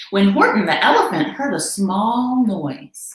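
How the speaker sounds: put-on lively read-aloud voice for children; story narration. A narrator's reading. Reader to listening kids, lively storytime voice. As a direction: tell it like bedtime to a child. Reads picture book aloud.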